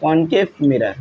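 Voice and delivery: "कॉनकेव" said kon-kev, with a rounded o; alternative pronunciation. Shown as a demonstration. Teacher allowing the other reading to students, "कॉनकेव" pronounced kon-kev. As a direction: open "kon" at the start of "कॉनकेव". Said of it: "तो कॉनकेव भी पढ़ सकते हो".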